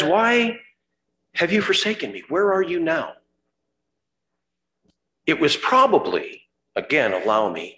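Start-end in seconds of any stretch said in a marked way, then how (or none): 0.0-3.2 pleading cry. Acted. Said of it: "And so he says".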